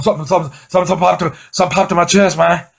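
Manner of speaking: high, anxious repeating; half-laughing panic over his chest; imitating his own panic; panicky. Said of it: "I'm going".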